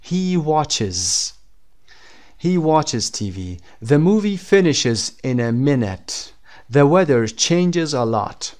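slow model reading, "watches", "finishes", "changes" ending in a full "iz" syllable; final IZ ending. Shown as a demonstration. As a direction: read slowly, sounding out the extra "iz" on "watches". (خواندن آهسته با «ایز» در انتهای «watches»، «finishes»، «changes»)

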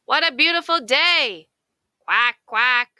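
high, loud, fast cheer of a duck; excited duck. A narrator's reading. Duck sitting in the park with her friend, high excited cheer. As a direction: burst out with delight, quacking.

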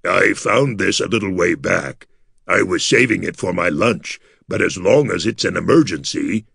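a lightly voiced gargoyle, offhand; a gargoyle holding out his saved lunch; Gus voice. Gargoyle Gus offering his rat, lightly voiced.

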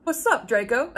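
reading the line through giggles; can't keep a straight face; words breaking into a laugh. Real, not acted. Reads dialogue, cracking up.

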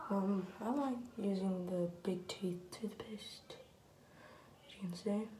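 whispering. Real, not acted. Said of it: "I really wanna be quiet".

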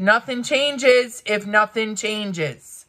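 drawn-out, punchy near-yell; mild yelling. Real, not acted. Vlogger quoting their own warning comment, mildly yelling. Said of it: "I'm sorry, I'm yelling".

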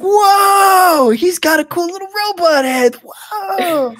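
put-on high, loud amazed kid; awed shout. Stable boys marvel at the robot, high awed shout. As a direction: yell out in wonder at the robot.

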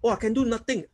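mocking a fake-humble believer; mock false humility. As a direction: mimic someone putting themselves down. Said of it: "You're not humble".

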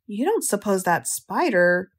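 slow, hesitant, trailing off; trailing off unfinished. Acted. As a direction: let the thought die unfinished. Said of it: "didn't finish the sentence".

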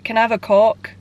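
mock northern English accent. Rehearsing a drive-through order to disguise a word, northern accent. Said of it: "If I did like a northern accent".

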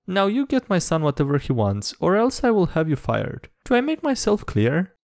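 1 stern threat. Acted. Angry mother threatening narrator.

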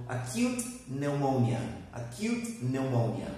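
"pneumonia" starting on n, no P sound; silent P. Shown as a demonstration. Teacher shows students the rule, silent P in "pneumonia". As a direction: demonstrate "pneumonia" carefully with the P left mute. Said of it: "We do not pronounce it".

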